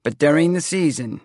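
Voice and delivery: building toward a grand announcement; high, loud lead-in to a role; stage seer. A narrator's reading. Seer shifting into her stage character.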